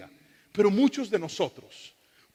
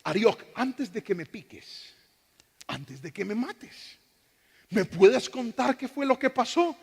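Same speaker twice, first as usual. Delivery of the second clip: calm reply; 3 semitones higher, 3 dB quieter than usual. Acted. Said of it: "Y dice".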